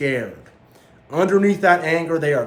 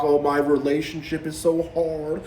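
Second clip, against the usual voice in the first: 1 mock self-pity; 4 semitones higher than usual. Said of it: "They'll talk".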